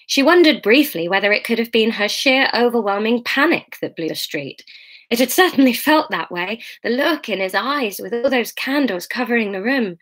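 measured audiobook reading; story narration. A narrator's reading. Reader to her online listeners, measured story narration. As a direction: read the novel aloud evenly. Reads the novel aloud.

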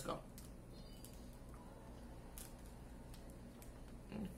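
chewed words after bite; talking while chewing. Real, not acted. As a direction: mouth partly full. Seen 0: Bites bar, chews with closed mouth while saying "mm", then talks.

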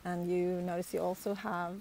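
unhurried meditation voice with long pauses between phrases; guided meditation. Real, not acted. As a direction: guide them calmly, phrase by phrase, leaving space to breathe.

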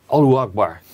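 a loud call of "Allahu Akbar". Retold or imitated. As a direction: imitate people calling "Allahu Akbar" out loud. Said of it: "dan roepen ze ook".

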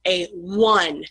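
"one" begun with a rounded W, "wun"; W sound in one. Shown as a demonstration. Teacher sounding out the article before one, clear W onset. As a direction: lean on the W that opens "one". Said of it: "the vowel O makes a W sound".

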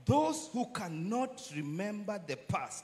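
slow, measured quotation; slow repetition. Shown as a demonstration. Preacher repeats a saying for the congregation, slowly. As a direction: say it slowly and deliberately, spacing the words. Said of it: "Let me repeat that again slowly for us".

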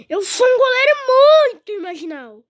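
half crying, half yelling; raging gamer. Real, not acted. Rages at own goalie.

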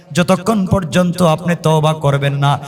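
ordinary talk

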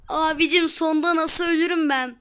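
loud complaint through a laugh; amused gamer giggling at his own fail; laughing disbelief. Real, not acted. Laughs after dying again.

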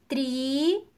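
"Tricô" in two drawn-out syllables, long pause between; very slowly. Shown as a demonstration. Teacher asks pupils for attention, word very slowly split in syllables. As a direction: stretch and separate the syllables of "Tricô". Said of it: "bem devagar".

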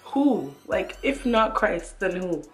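impassioned questions, really moved; emotional pleading. Real, not acted. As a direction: ask it urgently, overcome with conviction. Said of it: "I don't know why I'm getting emotional".

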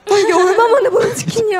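mock tearful. Acting moved in chicken CF.

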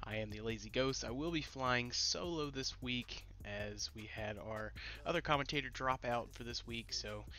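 nasal, stuffy nose from a cold. Real, not acted. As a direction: talk through a stuffed-up nose. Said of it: "sounds like I'm pinching my nose".

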